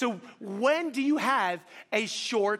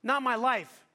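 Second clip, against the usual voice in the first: insisting; 5 semitones higher than usual. Retold or imitated. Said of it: "And I said".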